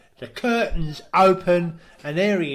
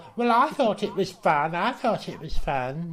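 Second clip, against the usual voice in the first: a hint of sulking man; mock sulky voice; 3 semitones higher than usual. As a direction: sulk like a child. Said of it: "he goes".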